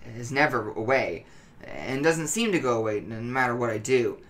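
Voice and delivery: anxious, halting, stumbling over words; tense and jittery, like he can't sit still; nervous paranoid voice. Acted. Paranoid addict gives his account.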